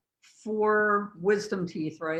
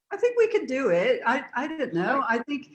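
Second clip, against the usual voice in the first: put-on British accent, lilting higher; 4 semitones higher than usual. Co-host answering whether they could keep it up, British accent. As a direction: play along in a British accent.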